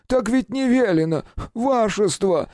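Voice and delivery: very high, tearful plea of a servant; tearful doorman. A narrator's reading. Doorman refusing the detective, tearful high plea. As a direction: whimper it as if near tears. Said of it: "со слезами в голосе".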